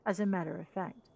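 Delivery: lightly voiced, earnest inventor; impassioned engineer. Engineer argues to keep his batch of sand, earnest and impassioned. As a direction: plead the case for your invention.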